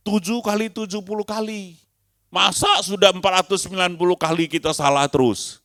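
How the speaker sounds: high, loud rhetorical shout; rising exclaim. Real, not acted. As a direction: drive the absurdity home. Rhetorical outburst. (seruan keras dan tinggi kepada jemaat)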